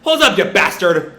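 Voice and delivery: a hammed-up shout after someone leaving; retold yell. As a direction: call after him half-shouting. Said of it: "Boruto just yells".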